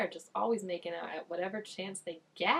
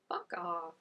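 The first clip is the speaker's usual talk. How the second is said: a hushed real swear; softly whispered curse; 2 semitones lower, 4 dB quieter than usual. Real, not acted. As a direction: whisper the curse under your breath. Muttered retort at screen.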